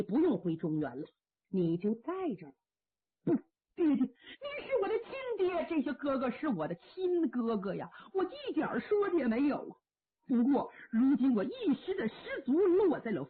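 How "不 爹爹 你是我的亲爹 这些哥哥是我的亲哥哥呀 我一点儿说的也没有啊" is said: crying out high to his father, voice breaking; a son's sobbing protest; choked-up pleading; tearful plea. Acted.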